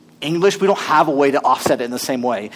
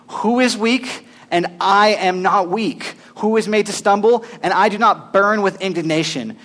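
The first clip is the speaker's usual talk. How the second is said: fervent reading. Acted. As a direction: proclaim each question with fire. Reads scripture aloud.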